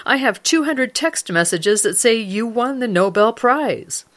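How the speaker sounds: lightly acted excited insistence; insistent retort. Wife insists to her doubting husband, mildly excited retort. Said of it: "she shot back".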